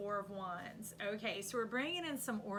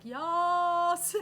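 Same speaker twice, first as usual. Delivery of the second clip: high loud "Yas!" held out; excited cheer; 9 semitones higher, 14 dB louder than usual. Retold or imitated. The emperor cheering her on, a high loud yell. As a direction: cheer it like a hype man. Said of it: "He's like".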